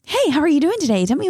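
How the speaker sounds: mock chirpy greeter. People greeting her too early, mock perky. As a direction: parody someone too cheerful in the morning. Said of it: "it's like people".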